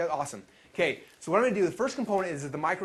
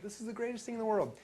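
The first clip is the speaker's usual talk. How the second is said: pitched much higher, delighted and breathless; higher-pitched thrilled version of the same line; giddy elation; 8 semitones higher, 4 dB quieter than usual. Retold or imitated. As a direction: squeal it like you just got rich. Elated after making three grand.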